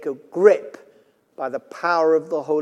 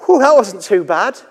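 relieved whew; 6 dB louder than usual. Retold or imitated. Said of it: "first thing I'm thinking".

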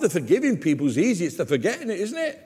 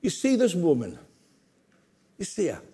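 gentle with a smile. Shown as a demonstration. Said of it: "he had a smile towards her".

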